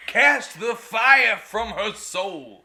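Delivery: very slow, drawn-out hammed-up sermon line; slow mock preacher. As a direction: intone it like a mock exorcist, slowly. Mock exorcism by husband.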